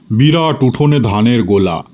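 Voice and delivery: ordinary delivery, nothing marked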